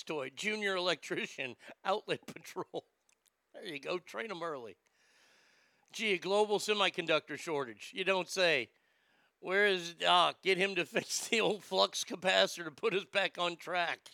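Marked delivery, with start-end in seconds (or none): 5.9-8.7 sarcastic. Real, not acted. Sarcastic echo of headline.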